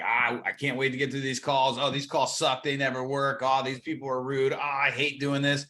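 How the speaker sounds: weary, grumbling complaint; negative mode. Acted. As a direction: grumble through it like you dread the work. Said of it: "they're in that negative mode".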